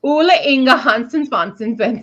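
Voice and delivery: playful Swedish lilt; mock Swedish accent. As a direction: rattle off names in joke Swedish. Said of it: "I hear Swedish and I do that".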